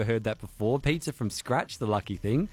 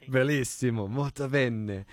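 put-on Italian accent. Mock Italian sign-off.

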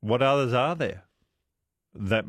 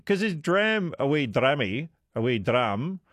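a hint of Scottish accent; a vague, half-hearted Scottish accent; lightly put-on Scottish accent; 2 semitones higher than usual. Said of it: "vague attempt of doing a Scottish accent".

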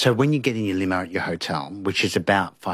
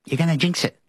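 much higher, louder sharp shush; imitating Lizzie snapping shut up; hushed snap; 9 semitones higher, 3 dB louder, faster than usual. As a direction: cut him off before he jinxes it. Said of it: "She said".

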